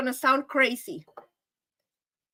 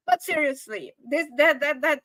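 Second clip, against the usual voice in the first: ordinary delivery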